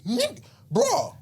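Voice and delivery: imitating guys calling out across the pool; excited holler.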